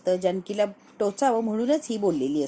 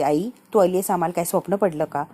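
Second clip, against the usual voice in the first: louder, lightly acted exasperation; irritated daughter; 6 dB louder than usual. Sumitra answers her mother about not knowing she had come, mildly irritated. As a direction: retell an annoyed rebuke to mother. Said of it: "Sumitra चिडलेली असते".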